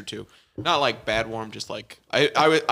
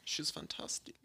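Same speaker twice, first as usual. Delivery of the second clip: put-on high, soft German-accented praise; 4 semitones higher, 10 dB quieter, slower than usual. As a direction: coo it in a playful German accent. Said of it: "make you do that accent".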